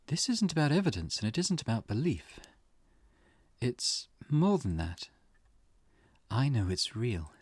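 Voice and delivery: lightly acted woman, measured and certain; client insisting. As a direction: insist with deliberate pauses, lightly in character. Voices client insisting curse is real.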